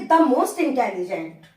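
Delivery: very slow, word by word; slow dictation. Shown as a demonstration. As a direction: dictate the superlative. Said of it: "teacher dictates superlative". (धीरे-धीरे बोलकर लिखवाना)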